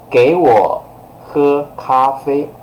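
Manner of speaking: very strong order. Shown as a demonstration. Teacher ordering someone to drink coffee, very strong. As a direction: order someone firmly, drawn out. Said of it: "that sounds very strong".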